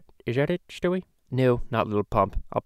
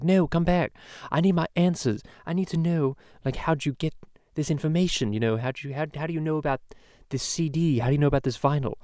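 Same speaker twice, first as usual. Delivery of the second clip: higher, lightly voiced pleading chase; pleading interviewer; 5 semitones higher than usual. Interviewer chasing a fleeing rapper, lightly imitated pleading, higher. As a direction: call him back, hungry for answers. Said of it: "Nardwuar was chasing him, like".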